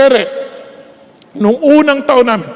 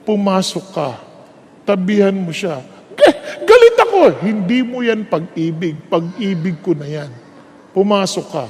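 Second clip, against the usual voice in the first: God calmly telling the husband to go in; 3 semitones lower than usual. Retold or imitated. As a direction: gently command him in.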